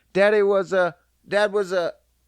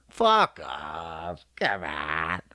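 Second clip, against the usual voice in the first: affectionate; 11 semitones lower, 3 dB quieter, much slower than usual. Shown as a demonstration. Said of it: "Fuck off means, "I love you".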